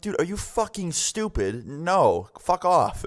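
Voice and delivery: high, drawn-out disbelief; retold exasperated brush-off; incredulous refusal. Narrator angrily refuses friend's request.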